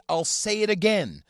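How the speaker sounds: hammed-up arrogant proclamation; mock pompous singer. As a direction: say it like a condescending sage. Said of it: "vapid and arrogant and condescending".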